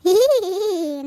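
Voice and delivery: a put-on hee hee hee to prove she is calm; forced laugh. Shown as a demonstration. Grandma showing the doctor she stays calm, forced giggle. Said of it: "ಹ್ಯಾಂಗ್ ನಗ್ಲತ್ತೀನಿ".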